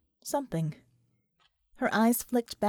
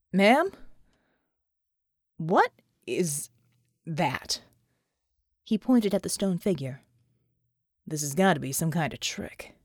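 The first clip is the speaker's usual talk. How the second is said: lower, halting disbelief; lower-voiced soldier in shock; stunned soldier; 7 semitones lower than usual. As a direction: barely get the words out. John stunned by stone figure.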